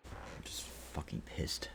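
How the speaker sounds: real anger kept to a whisper. Real, not acted. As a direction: seethe it under your breath. Muttering after promising to calm down.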